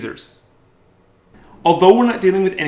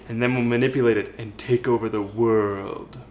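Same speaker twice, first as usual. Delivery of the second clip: mad scientist; 5 semitones lower, 5 dB quieter than usual. Pretend. Villain plan joke.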